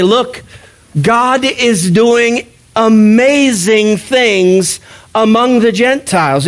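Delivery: lightly voiced apostle insisting on good news; Paul's eager claim. Paul urges Jerusalem Christians, a touch of excited insistence. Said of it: "Paul wants to be able to say".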